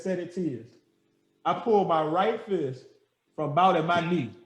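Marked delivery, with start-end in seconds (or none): 0.0-0.7 muttered signal. Retold or imitated. Chewy quietly telling him to swing, hushed. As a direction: say it under your breath. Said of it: "Chewy says".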